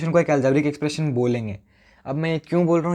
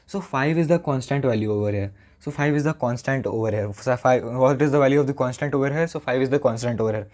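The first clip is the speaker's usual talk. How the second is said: slow, careful dictation pace; speaking slowly; much slower than usual. Shown as a demonstration. Teacher explaining constants to students, slow dictation. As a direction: lay each word down slowly for the notes. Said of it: "इसलिए मैं धीरे बोल रहा हूँ".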